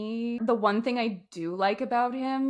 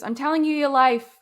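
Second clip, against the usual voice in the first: mock forceful retort, louder and higher; retold heated line; 5 semitones higher, 7 dB louder than usual. Retelling the movie fight, a mock indignant retort. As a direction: snap it back like she's scolding him.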